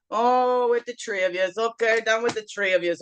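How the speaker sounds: put-on light Newfoundland accent; a touch of an uncle's Newfoundland accent; Newfie accent. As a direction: let a playful Newfie lilt slip in. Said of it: "Uncle Newfie accent coming through there".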